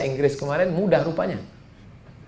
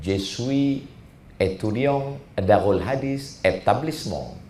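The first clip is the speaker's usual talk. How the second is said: French lesson drill; 6 semitones lower, 4 dB quieter, slower than usual. Retold or imitated. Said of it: "Paksa kami belajar lagi".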